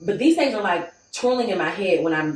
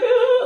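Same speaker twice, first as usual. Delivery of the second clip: retold crying wail; 7 dB louder than usual. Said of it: "I'm just crying".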